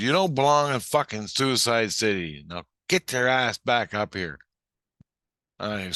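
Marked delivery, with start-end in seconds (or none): 0.0-4.4 raised, scolding order; commanding Jesus Christ. Retold or imitated. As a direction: order someone back up, raising your voice a little. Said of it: "He goes".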